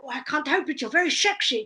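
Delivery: hammed-up Dutch accent with slushy s sounds; comic mock-Dutch voice; bad Dutch accent. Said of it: "gonna do a bad Dutch accent now".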